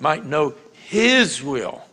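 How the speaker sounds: "his" drawn out slowly; slow, weighted stress on "his"; emphasis on HIS. Shown as a demonstration. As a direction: lean on the word "his" by stretching it. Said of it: "I'm gonna put emphasis on".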